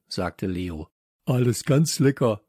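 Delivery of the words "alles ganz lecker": slightly raised, eager call. Acted. Samson presenting the food to Herr Nullinger, calling out. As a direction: call it out a little louder. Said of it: "rief Samson".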